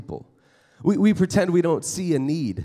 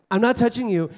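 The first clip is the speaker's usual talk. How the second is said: higher teasing sibling; 6 semitones higher than usual. Shown as a demonstration. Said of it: "You're like".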